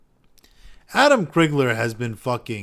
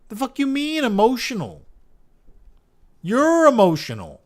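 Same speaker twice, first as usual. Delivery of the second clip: high, loud, exaggerated outraged yelling; furious imagined retort; 11 semitones higher, 8 dB louder than usual. Streamer ranting back at a game shill, outraged high yell. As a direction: blow up at him in mock outrage, voice climbing way up.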